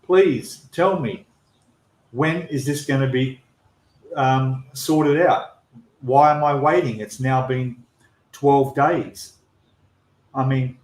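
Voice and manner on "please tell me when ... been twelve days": retold plea, drawn out at the start; pleading. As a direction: plead with them as you recount your messages. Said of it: "pleading with them, saying".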